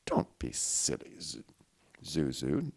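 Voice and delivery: slow, faltering, breathy words; unsteady. Acted. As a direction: son out of hospital, replying unsteadily to his mother. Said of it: "Jean Noel unsteadily replied".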